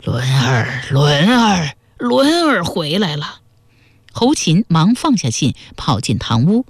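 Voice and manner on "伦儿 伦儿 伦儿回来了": 模仿父亲呼唤孩子，音调逐句升高; 演出父亲在屋外连声唤儿，并非全力大喊; 父亲叫嚷. A narrator's reading. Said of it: "忽然传来父亲的叫嚷声". (父亲的叫嚷声，越唤越高)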